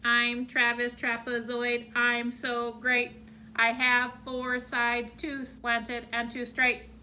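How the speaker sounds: lightly robotic, slow and even; a hint of a robot reciting each word. Shown as a demonstration. Teacher to class, reciting the poem in a light robot voice. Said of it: "say his poem like I'm a robot".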